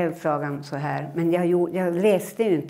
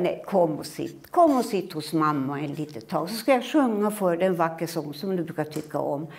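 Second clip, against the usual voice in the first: coaxing mother. Acted. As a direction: lure the child onto her lap. (lockande mamma)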